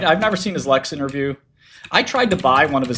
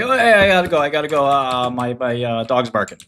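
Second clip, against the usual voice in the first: fake excuse voice. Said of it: "just be like".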